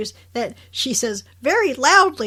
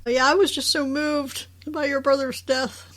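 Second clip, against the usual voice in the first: mock sincerity; 4 semitones higher than usual. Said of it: "would not believe it".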